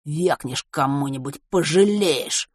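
hoarse thug warning. Acted. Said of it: "предупредил хриплый".

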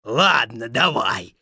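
low, grudging wolf voice; agreeing wolf. Acted. Wolf to Little Muk, low agreement. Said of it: "согласился волк".

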